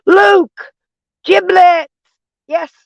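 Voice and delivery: high, loud happy call-out of names; excited greeting. Real, not acted. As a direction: hail each arriving viewer with delight, high. Greeting viewers joining stream.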